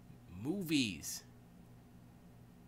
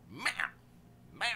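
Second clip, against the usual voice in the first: short, separate bark-like meows; 6 semitones higher than usual. Retold or imitated. Old cat doing the equivalent of barking, abrupt meows. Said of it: "the equivalent of a cat barking".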